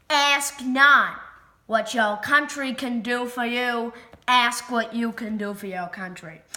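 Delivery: put-on Kennedy's inaugural quote in a light Boston accent. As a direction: orate the famous line with a hint of Boston. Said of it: "Sorry if I have too much of a, of a Boston accent".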